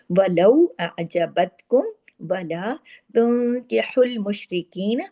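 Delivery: drawn-out tajweed reading; slow recitation. Shown as a demonstration. Teacher reciting the verse for students. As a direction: recite slowly, savouring each letter. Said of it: "teacher reciting verse".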